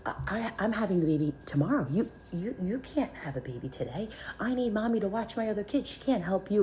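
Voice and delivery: retold angry sputter, rising in pitch; mad sister. Older sister objecting to her sibling's labor, mad. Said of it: "she was mad at me".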